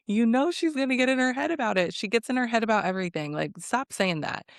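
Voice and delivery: fed-up, mildly heated telling-off; exasperated scolding. Real, not acted. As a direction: start high and quick, then drop. Narrator scolds the retold speaker.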